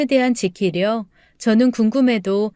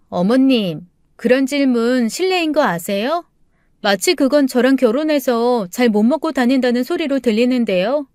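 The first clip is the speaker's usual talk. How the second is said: lightly voiced, miffed young wife; offended daughter-in-law; 2 semitones higher than usual. Daughter-in-law objects to mother-in-law's question, mildly affronted. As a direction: politely take offence at the question.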